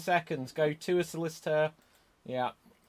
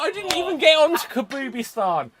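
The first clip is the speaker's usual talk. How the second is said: Queen of England; 13 semitones higher, 16 dB louder than usual. Pretend. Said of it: "the Queen of England".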